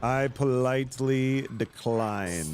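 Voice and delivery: slow villain voice, politely menacing; drawn-out villain refusal; evil voice. Acted. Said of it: "Just stop it".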